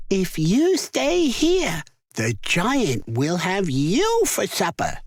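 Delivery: high, slow warning voice; giant's wife. A narrator's reading. Giant's wife warning Jack, high slow voice. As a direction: warn the boy in a hushed fright. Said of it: "she said".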